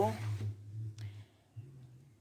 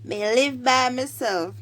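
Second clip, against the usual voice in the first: higher-pitched Jamaican Patois reply; 4 semitones higher than usual. Shown as a demonstration. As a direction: answer as a Patois teacher models it. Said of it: "you say".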